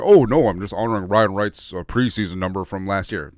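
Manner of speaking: imitating a feigned-innocent excuse; put-on "who, me?" denial; mock innocence. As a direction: play innocent, badly faked. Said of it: "passive-aggressive shot at management".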